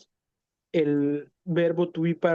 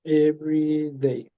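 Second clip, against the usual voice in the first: slow model phrase. Shown as a demonstration. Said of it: "Aquí faltó el every day".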